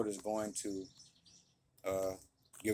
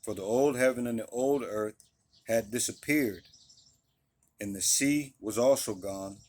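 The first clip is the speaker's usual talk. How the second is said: louder, deliberate reading of the verses; scripture reading; 3 dB louder than usual. Acted. Preacher reading Revelation to his listeners, steady and deliberate. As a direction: read it out like a pulpit reading.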